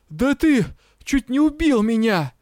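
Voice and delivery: high, loud indignant shout; outraged yell. A narrator's reading. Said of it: "заорал партнёр". (возмущённый крик)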